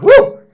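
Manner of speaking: loud, high-pitched cheering whoop; excited whoop. Acted. Co-host cheers the hot bride joke, excited whoop. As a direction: let out a big woo. Cheering along with the angel bit.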